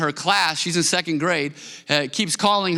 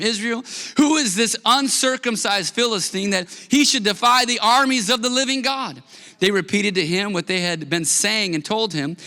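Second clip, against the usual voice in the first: measured, lifted Bible reading; preacher reading scripture to the congregation; 3 semitones higher than usual. Acted. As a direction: read the passage with weight and care.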